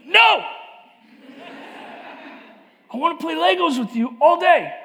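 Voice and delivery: put-on high eager child's cry of no; little boy. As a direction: play the small son begging his dad to stay. Young son voiced in story.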